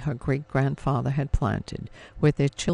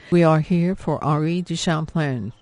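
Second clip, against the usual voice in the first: gentle; 5 dB louder than usual. A narrator's reading. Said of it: "said in a gentle voice".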